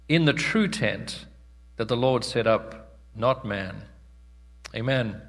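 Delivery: measured public Bible reading, pausing between phrases; scripture reading. Real, not acted. Preacher reading Hebrews to the congregation, measured scripture reading. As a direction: read the passage out solemnly, phrase by phrase.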